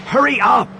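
urgent high shout; desperate shout. Acted. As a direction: yell it, nearly desperate. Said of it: "his tone almost desperate".

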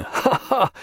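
pleased little ha-ha; laugh at own joke. A narrator's reading. Captain laughs at his Greenwich rhyme, amused.

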